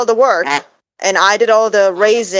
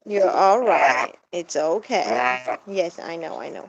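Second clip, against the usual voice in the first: soothing pet talk; slower than usual. Real, not acted. Soothing pet bird softly.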